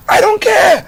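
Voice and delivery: mock dismissive. Voices a dismissive person.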